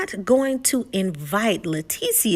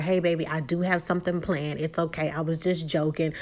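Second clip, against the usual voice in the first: softer, lower reassurance; soothing husband; 4 semitones lower, 5 dB quieter than usual. Retold or imitated. Husband calming his upset wife, softer reassuring voice. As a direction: soothe her gently. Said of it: "he tells her".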